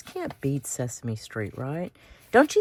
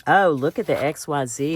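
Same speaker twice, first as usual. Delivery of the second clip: ordinary delivery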